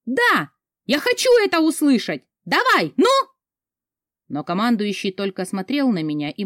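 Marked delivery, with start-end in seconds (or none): 0.0-3.1 high, loud, demanding yell; desperate shout. Acted. Heroine demands his oath, yelling over battle. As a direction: push him, shouting at the top of your voice. Heroine keeps screaming at commander.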